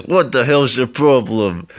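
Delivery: loud, high, drawn-out mock protest; indignant. Retelling the shoved brother's comeback, mock-indignant. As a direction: imitate someone outraged at being shoved. Acted quarrel after a shove.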